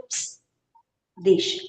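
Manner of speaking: hushed shush, almost breath; hushing. Retold or imitated. Mother hushing husband to leave the boy, hushed shush. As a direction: quietly hush him to let it go.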